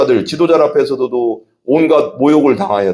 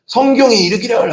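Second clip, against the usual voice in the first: raised, higher proclaiming call on 성경에; Billy Graham shouting; 9 semitones higher than usual. Retold or imitated. Preacher imitating a revival sermon to the congregation, raised, higher proclaiming. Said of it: "하면서 막 외치거든요".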